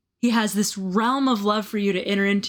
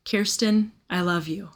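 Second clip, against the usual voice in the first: gentle whisper. Retold or imitated. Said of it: "this gentle whisper of".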